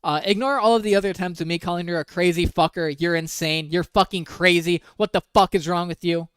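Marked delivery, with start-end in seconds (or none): 3.0-6.3 a touch of his anger, a little louder; mock angry read. Quoting the boyfriend's insults, mildly heated. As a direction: spit his insults back out.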